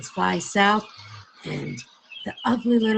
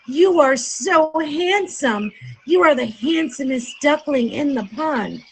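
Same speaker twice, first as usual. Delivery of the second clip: admiring; 6 semitones higher, 3 dB louder than usual. Acted. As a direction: gush over his beauty. Admiring the handsome duckling.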